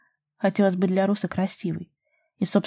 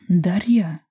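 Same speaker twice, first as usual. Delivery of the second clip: pointed warning; 3 dB louder than usual. A narrator's reading. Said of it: "с нажимом предостерёг Руслан".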